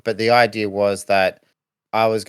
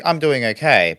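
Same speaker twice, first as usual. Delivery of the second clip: upbeat, a bit higher and brighter; confident; 4 semitones higher than usual. Retold or imitated. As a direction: sound sure things are fine. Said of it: "and I'm like".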